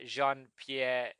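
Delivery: name said with a French accent; lightly French-accented name. Shown as a demonstration. Podcaster naming the French director, in a French accent. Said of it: "a French accent".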